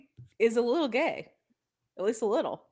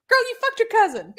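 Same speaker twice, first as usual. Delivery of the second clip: emphatic; 12 semitones higher than usual. Real, not acted. Blunt punchline to co-host.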